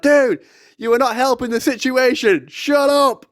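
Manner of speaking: high, strained retold outburst climbing at the end; high-pitched mock yell; exasperated yelling. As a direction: re-enact losing patience with a panicker. Shouting back at screaming friend.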